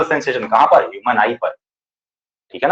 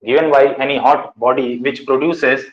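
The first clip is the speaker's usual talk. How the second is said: drawn out word by word for writing; slow dictation; much slower than usual. Shown as a demonstration. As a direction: dictate slowly to the class. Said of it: "dictating definition slowly".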